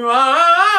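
high loud nasal ah demonstrated. Shown as a demonstration. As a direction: belt a pinched, nasal ah. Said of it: "It's like".

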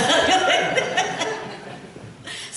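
high, airy burst of laughter; breathy laugh. Real, not acted. Preacher laughing after quoting the critics, airy.

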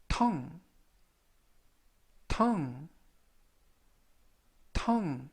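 tongue, said slowly three times for students to copy; tongue을 천천히 세 번 또박또박; slow repeat-after-me. Shown as a demonstration. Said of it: "천천히 세 번씩 읽어드리고요". (따라 읽도록 천천히 세 번)

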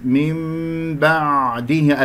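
"من بعده" chanted slowly with a full, deep ع. Shown as a demonstration. Teacher modelling the deep ع, measured chant of "من بعده". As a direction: sound the ع of "بعده" from deep in the throat. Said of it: "العين عميقة".

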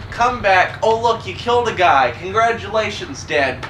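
high loud mock announcer; lightly voiced game announcer. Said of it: "when the game says".

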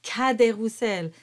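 Cadet Roussel with an open forward A. Shown as a demonstration. Teacher demonstrating for singers, Cadet Roussel with open A. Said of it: "pronounced with the open sound A".

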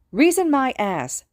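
high, loud, drawn-out outrage; angry scoff. A narrator's reading. Mitsuki rejecting Hisashi's appeal to reason, angry scoff. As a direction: throw the word back scornfully. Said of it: "Mitsuki hissed".

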